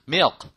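"milk" with a dark L and a barely released k; careful milk. Shown as a demonstration. Teacher shows how to say milk properly. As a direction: drop the tongue back after the L in "milk". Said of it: "그걸 툭 내리는 거예요".

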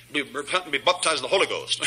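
"baptized" as "bop-tized", "Holy Ghost" as "holla-ghost"; mocked mispronunciation. Preacher mocking heretics who can't talk right, mispronounced "baptized". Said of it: "they can't talk right anymore".

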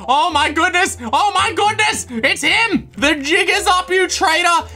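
alarmed accusation. Real, not acted. Confronts the traitor while fleeing.

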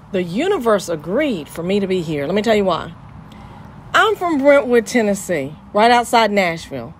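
serious. Real, not acted. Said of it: "I'm gonna go serious for a second".

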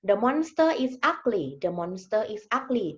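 very slow, word by word, like reading to a class; slow example reading. Shown as a demonstration. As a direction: spell the sentence out slowly for learners. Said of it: "อย่างเช่น".

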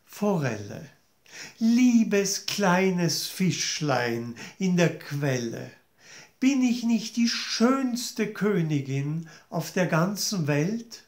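slow, coaxing call to the fish; lightly voiced vain queen calling; queen's sing-song plea. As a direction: lure the fish with sweet words. Queen addresses the trout.

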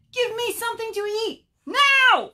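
high, loud demand peaking on the last word; shouting demand. Acted. Famished Bird orders Rabbit to feed him, shouting. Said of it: "shouted Bird".

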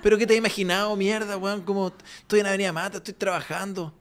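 a hint of Santa, mostly soft; calling the delivery guy as a lightly played Santa; Santa on the phone. Santa phones the delivery driver, softly and lightly voiced. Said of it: "el viejo Pascuero le dice".

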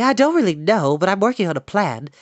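evasive, voice lifted; vague. A narrator's reading. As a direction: hedge airily. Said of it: "said Charlotte vaguely".

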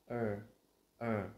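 "er" short, light and unstressed; relaxed schwa er. Shown as a demonstration. Teacher showing the relaxed sound, light unstressed demo. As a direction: let "er" fall out loosely. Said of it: "relax là cái âm thật thoải mái".

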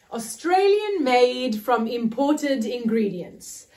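slow announced poem title; poem title read out. Acted. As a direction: present the title like a performer. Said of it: "the first poem I will be reading is called".

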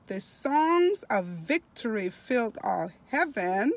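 slow, stretched, emphatic reading aloud; devotional reading. Acted. Preacher reading of heaven to online listeners, slow devotional reading. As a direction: draw out key words with rising swells.

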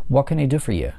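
what can I do for you with do stressed; stress on do, falling. Shown as a demonstration. Teacher models a wh-question falling on do. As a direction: hit do and let the tune fall. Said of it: "нисходящая интонация".

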